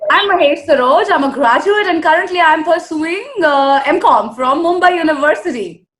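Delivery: clear, energetic model introduction; lively, fully articulated demonstration; open-mouthed articulation. Shown as a demonstration. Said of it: "also open your mouth more".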